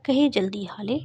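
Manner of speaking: loud angry order to swear quickly; angry command. A narrator's reading. Mother angrily pressing daughter to swear, loud. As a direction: snap the name out loudly. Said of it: "شمع بیگم نے غصے سے کہا".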